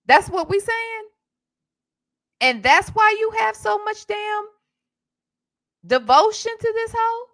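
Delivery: mock indignant cross-examination; incredulous retold question. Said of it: "I said".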